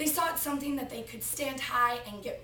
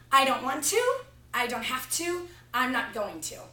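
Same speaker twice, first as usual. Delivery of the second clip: put-on a little girl's stubborn refusal, louder; defiant child; 6 dB louder than usual. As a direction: dig in your heels like a bratty five-year-old. Defiant child refusing her father.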